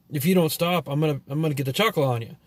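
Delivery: light imitation of a thick Spanish accent; mock the mom's Spanish accent, threatening. Mom threatening her mouthy son, mild mock Spanish accent. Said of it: "with a really thick Spanish accent".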